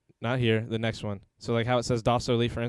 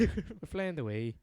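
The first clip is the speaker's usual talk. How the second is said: softer, high, drawn-out Scottish echo; Scottish accent; 5 semitones higher, 5 dB quieter, slower than usual. Retold or imitated. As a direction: echo the wail in mock Scottish. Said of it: "Remember that Vine?".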